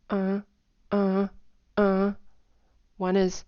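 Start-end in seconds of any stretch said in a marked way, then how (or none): 0.1-2.1 hummed tones. Shown as a demonstration. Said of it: "hum it".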